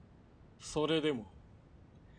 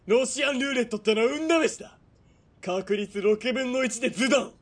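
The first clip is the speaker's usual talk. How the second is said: quick, relishing the cruelty; gloating menace; 5 semitones higher, 4 dB louder than usual. Acted. Villain taunting a captive girl with russian roulette, gloating. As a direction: savour every word of the threat.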